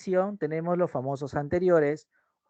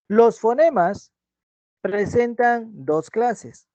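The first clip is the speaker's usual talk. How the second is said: slow and deliberate, each word set apart; slow emphatic; 4 semitones higher, 6 dB louder, much slower than usual. Shown as a demonstration. Teacher stressing the two classes to students, slow and deliberate. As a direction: spell out the point slowly for the students.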